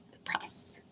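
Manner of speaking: words stretched by a yawn. Real, not acted. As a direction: say it mid-yawn. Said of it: "I'm just yawning again".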